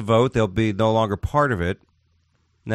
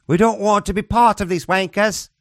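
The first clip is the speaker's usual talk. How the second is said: high, mock-accented protest; hammed-up voice of a fed-up nation; Scotland personified; 12 semitones higher, 4 dB louder than usual. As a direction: put on an indignant high-pitched national voice. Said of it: "Scotland is saying".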